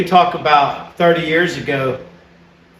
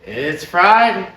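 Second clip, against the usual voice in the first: drawn-out, slightly raised day announcement; excited announcement; 3 semitones higher, slower than usual. Pretend. Telling the viewers what he forgot, drawn-out announcement. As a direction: stretch it out like a cheer.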